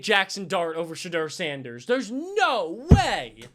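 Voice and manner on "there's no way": slow stretched there's no way; drawn-out disbelief. Real, not acted. Streamer watching the draft, slow incredulous there's no way.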